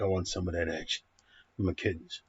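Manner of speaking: low, soft, quick mumble for the cat; lightly voiced cat. Reviewer voices his attention-hungry cat, low and quick. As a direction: mutter the cat's demands under your breath. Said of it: "he's like".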